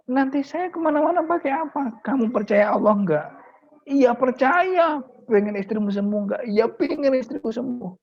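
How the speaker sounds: very high, strained, helpless voice; desperate husband torn over selling the motorbike; anxious pleading. Acted. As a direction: plead in distress, then give in. Kiai argues, then gives in.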